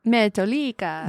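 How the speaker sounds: put-on echoed Zuni-accented band name; imitation Zuni accent. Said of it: "the Zuni accent".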